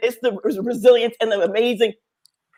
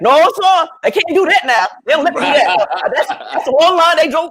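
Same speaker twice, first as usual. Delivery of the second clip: sarcastic reply; 6 semitones higher, 4 dB louder than usual. Retold or imitated.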